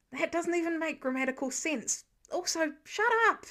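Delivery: exasperated, snapping back; irritated retort, rising; annoyed snap. Acted.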